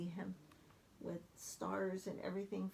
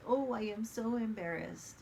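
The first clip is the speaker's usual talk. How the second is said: embarrassed Grover; 3 dB louder than usual. Acted. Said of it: "then he ends with".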